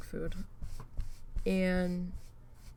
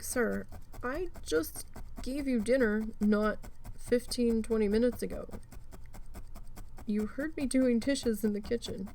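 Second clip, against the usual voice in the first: scolding the dog; 5 semitones higher than usual. Retold or imitated.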